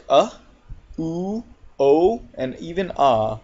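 "a" as uh, then "oo", "o", "ah"; four separate vowels, "a, oo, o, and even ah"; O sounds demo. Shown as a demonstration. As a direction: isolate each vowel: "a", "oo", "o", "ah". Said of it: "O can sound like".

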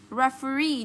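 Referee as re-fe-REE; stress on last syllable. Shown as a demonstration. Teacher marking the stress, Referee as refe-REE. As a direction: land on the long final REE of Referee. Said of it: "nhấn trọng âm vào đây".

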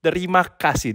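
"Terima kasih" said te-RI-ma KA-sih as a model; Indonesian demo. Shown as a demonstration. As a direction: teach the learner "Terima kasih". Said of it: "probably the hardest one".

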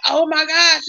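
high, thrilled gasp of joy; bursting with happy disbelief; reliving the moment of delight; excited. Retold or imitated. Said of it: "And I'm just ecstatic".

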